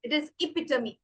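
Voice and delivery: "epitome" as e-PIT-uh-mee, four syllables; "epitome" with the final e sounded; correct pronunciation. Shown as a demonstration. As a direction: end "epitome" on a clear "mee". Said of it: "But for this word particularly".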